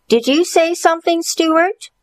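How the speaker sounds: high, fast schoolteacher; prim teacher voice. Acted.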